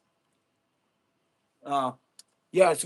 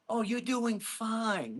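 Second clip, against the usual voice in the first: mock sugarcoating; 3 semitones higher, 4 dB quieter, much slower than usual. Mocking the sugarcoating friend.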